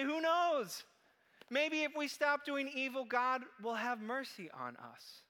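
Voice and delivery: hopeful townspeople. Acted. Preacher voicing the city's people hoping for mercy, high and loud. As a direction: lift the voice in desperate hope.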